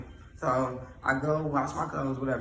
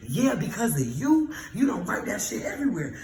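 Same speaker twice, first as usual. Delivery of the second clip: angry comeback; 4 semitones higher, 3 dB louder than usual. Retold or imitated. Quarrel with the roommate.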